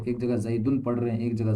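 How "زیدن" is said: زیدن said zaidun, ending in -un; case ending demo. Shown as a demonstration. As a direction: land clearly on the -un ending. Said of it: "ہم تلفظ کر رہے ہیں اس پہ".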